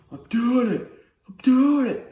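high, loud burst of amazement; thrilled exclaiming. Acted. Brother riding alone for the first time, giddy high shouting. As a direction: cry out in giddy disbelief.

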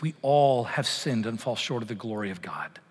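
hushed, nearly whispered confession; whispered scripture. Acted. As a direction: breathe the words like a confession. Quoting Romans softly.

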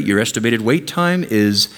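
slow low robotic hold message; phone menu voice. Retold or imitated. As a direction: read it like a recorded phone line. Automated phone queue message.

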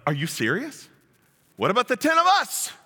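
rising indignant protest, high at the end; indignant disciples. Acted. Disciples protesting to James and John, indignant. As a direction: complain that they were left out. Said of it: "They were not happy".

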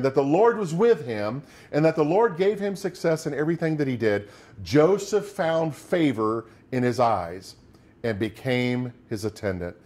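steady, measured Bible reading from the pulpit; scripture reading. Acted. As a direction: read the verses out to the congregation. Reads Genesis aloud.

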